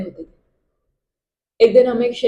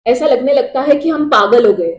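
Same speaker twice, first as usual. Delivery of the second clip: raised, urgent voice of doubt; louder, distraught questioning that builds in pitch; anguished questioning; 3 semitones higher, 4 dB louder than usual. Acted. Soldier haunted by war questioning right, wrong and God, anguished.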